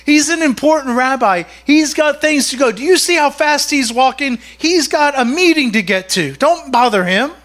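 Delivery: mildly indignant telling-off; rebuking. Acted. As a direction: shush a nuisance, listing reasons to back off. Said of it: "rebuked him and told him to be quiet".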